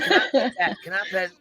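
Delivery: put-on little girl from the meme. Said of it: "I say it all the time".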